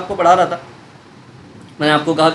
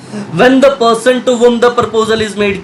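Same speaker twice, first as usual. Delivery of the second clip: slow statute reading; much slower than usual. Shown as a demonstration. Teacher reads the statute definition.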